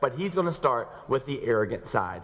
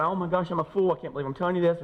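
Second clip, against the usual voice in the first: Paul cringing; 5 semitones higher, faster than usual. Acted. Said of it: "Paul here's going".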